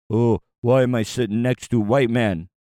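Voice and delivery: a hint of a put-on chief voice; lightly voiced chief. Host mocking how the chief feels sitting there, light put-on voice. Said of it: "he doesn't sound like that".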